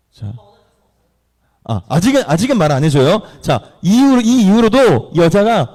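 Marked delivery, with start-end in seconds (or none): none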